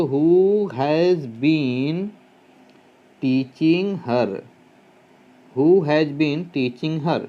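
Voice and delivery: who has been teaching her, stretched out word by word; very slow dictation. Shown as a demonstration. Teacher dictating the answer to students, very slowly. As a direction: drag each word for writing.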